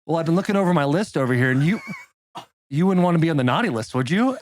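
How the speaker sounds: low, brisk, matter-of-fact warning; joyless Santa. Retold or imitated. Will as Santa warning Win about the naughty list, brisk and cheerless. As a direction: imitate an undisguised Santa with no cheer. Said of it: "No happiness in his voice".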